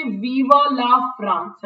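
Viva la France drawn out very slowly; slow proclamation. Shown as a demonstration. Teacher showing the words M. Hamel wrote on the board, slow and solemn. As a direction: spell out each word of Viva la France as if writing it large. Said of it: "बड़ा बड़ा उसने board पे लिख दिया".

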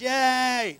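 hammed-up churchgoer's cheer; mock excited cheering. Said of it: "you're running around church".

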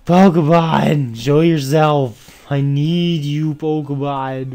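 slow drawn-out call into the grass; beckoning the Pokemon to appear. Real, not acted. Calling out for wild Pokemon.

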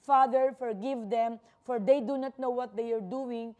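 loud, emphatic cry to the Father; mock shout of Jesus. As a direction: call it out loudly, imitating a cry from the cross. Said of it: "sumisigaw si Jesus ng".

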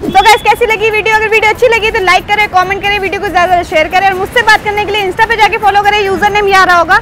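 cheerful like-and-subscribe pitch; breezy YouTube outro read; vlog outro. Acted. Channel outro to viewers.

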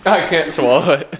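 gagging with a laugh; straining not to retch; dry heaving. Real, not acted. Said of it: "I'm gonna gag".

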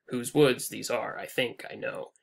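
lightly clip-clopping "Whose woods these are, I think I know"; clip-clop meter. Shown as a demonstration. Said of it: "a horse sort of clip-clopping through".

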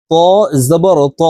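ত with a full emphatic t and rounded back vowel; careful model of a heavy Arabic ত; thick, heavy ত. Shown as a demonstration. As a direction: make both ত syllables thick and back. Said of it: "একটু মোটা করে উচ্চারণ".

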